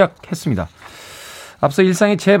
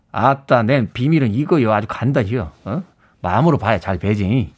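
a light mock Jeolla accent, lower; Jeolla dialect; 6 semitones lower than usual. Host tries out a hinted Jeolla dialect version. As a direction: try the fox's lines in Jeolla dialect. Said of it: "뭐 이렇게 가는 겁니까?".

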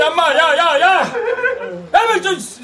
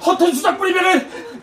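shouted threat, half laughing, half crying; angry threat. Acted. Man on the bridge threatening the rescuers angrily. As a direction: threaten to jump, voice cracking.

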